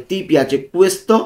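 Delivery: Ti piace questo said very slowly and clearly; slow the Italian for learners; slow pronunciation model. Shown as a demonstration. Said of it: "উচ্চারণগুলো ভালো মতো খেয়াল করব". (ধীরে ধীরে স্পষ্ট উচ্চারণ)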